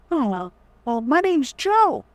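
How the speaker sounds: mock a shy kid mumbling his name; meek kid. Coach mocking a timid kid saying his name, squeaky. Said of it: "Kids are like".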